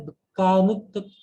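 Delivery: দুকানু ত- said slowly, leaning on the doubled t; slow teaching pronunciation of দুকানু ত-; doubled consonant demo. Shown as a demonstration. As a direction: drag out দুকানু ত- to show the double letter. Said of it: "এখানে তাজদিদ বা শব্দ আছে".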